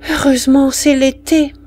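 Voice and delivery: the mother sighs with relief and sorrow; sighing mother. Acted. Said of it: "soupira la femme". (soupir ému de la mère)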